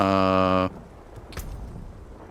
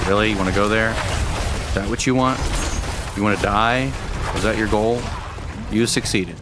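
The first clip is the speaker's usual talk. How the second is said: mock scolding; 4 dB louder than usual. Mock scolding chat after death.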